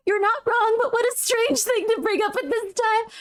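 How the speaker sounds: high voice, still tickled; laughing. Real, not acted. Streamer reacting to a strange thing to bring up, laughing. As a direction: talk through leftover giggles. Answering while still cracking up.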